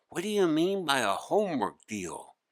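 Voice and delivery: put-on a kid groaning under a heavy load; young boy Hari. Hari asking the gnome.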